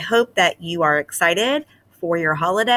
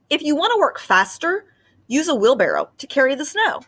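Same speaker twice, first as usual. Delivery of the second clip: mock whisper; 8 semitones higher, faster than usual. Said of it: "Dad whispered into his ear".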